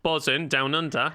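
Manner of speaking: slow, lightly put-on Australian accent; a hint of an Aussie accent. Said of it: "That's my Australian accent".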